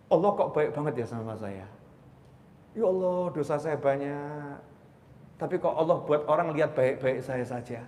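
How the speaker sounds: soft, humbled murmur to God; moved, tearful gratitude. Acted. Preacher remembering God's kindness, softly moved prayer. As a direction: pray softly as if close to tears. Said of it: "bisa nangis saya".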